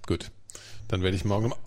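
ordinary talk, nothing marked

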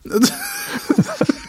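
giggling high-pitched laugh. Real, not acted. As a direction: break into giggles. Laughing at own illness.

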